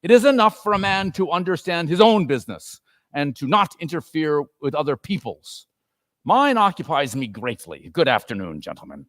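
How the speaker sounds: put-on a curt old miser dismissing visitors; stern miser. Scrooge coldly sends the charity gentlemen away, curt. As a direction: brush them off like Scrooge.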